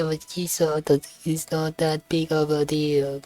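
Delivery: half-successful mimicry of Californian vocal fry; attempted Californian accent. Viewer copying the Californian woman's accent, attempted imitation. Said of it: "I can't do it".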